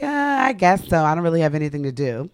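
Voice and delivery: unenthusiastic shrug. Retold or imitated. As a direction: mimic a boyfriend who can't be bothered. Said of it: "And he was just like".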